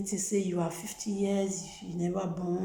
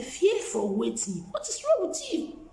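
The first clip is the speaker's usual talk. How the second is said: scolding quarrel; 3 semitones higher, 5 dB louder than usual. Retold or imitated. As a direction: scold her loudly for her fear. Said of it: "I started quarrel with her".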